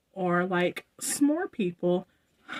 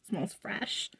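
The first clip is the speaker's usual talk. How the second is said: breathy whisper, much softer; whispered aside; 9 dB quieter than usual. Real, not acted. Vlogger sniffing the perfume, whispering to herself. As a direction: murmur it just to yourself.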